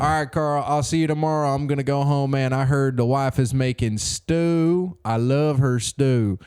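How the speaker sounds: easy Boston townie heading home for stew; Boston accent. Pretend. Whale-town resident leaving work, lightly voiced Boston accent. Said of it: "You went in there with a Boston accent".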